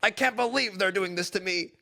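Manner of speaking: a hint of a sulky raging player; mild mock rage with a growl; mock angry gamer. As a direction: grumble it like a sore loser. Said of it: "that's what some of you guys are like".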